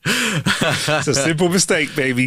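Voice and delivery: mock tender wife. Playing the wife consoling Tom.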